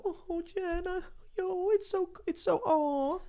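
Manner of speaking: high, mocking sympathetic coo; mock pity. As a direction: coo with exaggerated fake sympathy. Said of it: "she wants people to go".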